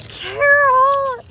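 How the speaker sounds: loud, high call of Carol; joyful shout of her name. Real, not acted. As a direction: call out to Carol across the room. Calling out to a viewer.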